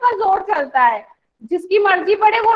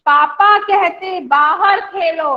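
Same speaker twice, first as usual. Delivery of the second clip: slow recited poem line; teacher reciting a children's poem; poem recitation; slower than usual. Shown as a demonstration. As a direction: draw the words out for the class. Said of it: "recites poem line".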